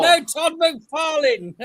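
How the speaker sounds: "Todd McFarlane" stretched out slowly; slow insistent correction. Real, not acted. Correcting the wrong name again.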